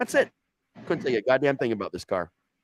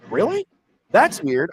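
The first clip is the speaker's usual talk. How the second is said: much higher, fake-innocent surprise; mock surprise; 10 semitones higher, 7 dB louder, slower than usual. Voicing Mike pretending not to know about the cops, high. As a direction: overplay the innocence.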